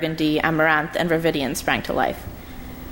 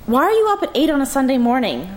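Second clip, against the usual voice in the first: raised, higher voice calling over noise; loud; 7 semitones higher, 3 dB louder, faster than usual. Acted. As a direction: call out over the bathroom noise. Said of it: "Leah said loudly".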